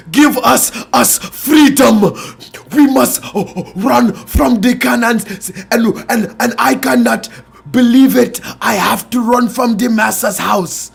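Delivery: loud mock movie-slave African accent, almost sung. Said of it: "Where was this accent?".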